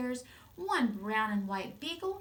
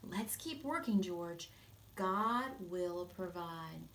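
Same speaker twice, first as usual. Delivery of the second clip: reassuring mother; 4 dB quieter, slower than usual. Acted. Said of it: "raised her eyes and replied".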